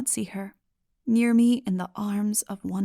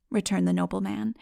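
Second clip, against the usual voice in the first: plain reading voice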